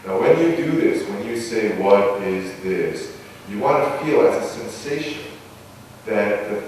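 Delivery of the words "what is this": "What is this?" drawn out slowly, last syllable extended; sincere slow inner question; slow intoned question. Shown as a demonstration. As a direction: let it rise slowly from the belly, unhurried. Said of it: "extend the last syllable".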